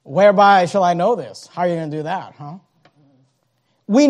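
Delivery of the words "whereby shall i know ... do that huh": skeptical, doubting challenge; a hint of scoffing doubt; critical doubt. Shown as a demonstration. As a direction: question it with suspicion. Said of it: "He's speaking critically".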